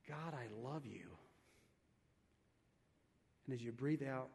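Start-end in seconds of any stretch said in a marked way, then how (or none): 0.1-1.1 hushed, tender prayer line; soft inner prayer. Shown as a demonstration. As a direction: murmur it like a private prayer. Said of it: "think about".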